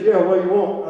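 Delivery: deep, low man's voice; low-pitched imitation of a blunt phone answer; Jake. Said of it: "He goes".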